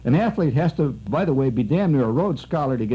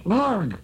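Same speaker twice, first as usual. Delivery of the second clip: a light, higher mock grunt; mock English oath; 5 semitones higher than usual. Retelling the cop's oath, lightly mocked. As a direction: toss off a comic English curse. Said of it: "It's an English".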